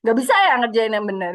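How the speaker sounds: fast, snappy mock nagging mum; hammed-up scolding mum; nagging mother. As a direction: rattle it off like an irritated mother. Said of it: "kalau lagi sewot ibu-ibu".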